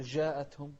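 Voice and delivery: جاءتهم begun with a soft "zh"; wrong soft jim. Shown as a demonstration. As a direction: mistakenly soften the ج of جاءتهم to "zh". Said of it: "لا تقول".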